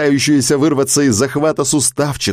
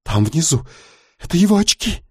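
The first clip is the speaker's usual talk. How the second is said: frightened; 7 semitones higher than usual. Acted. Hana spotting the glasses.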